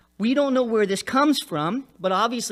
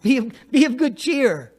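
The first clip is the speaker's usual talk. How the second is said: laughing mockery; 5 semitones higher, 7 dB louder than usual. Mocking repetition with laugh.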